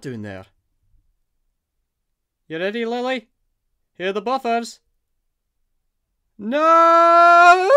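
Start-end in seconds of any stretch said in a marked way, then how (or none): 6.4-7.8 loud high no that breaks into a shouting laugh. Acted. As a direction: shriek with thrilled laughter. Hits the buffers.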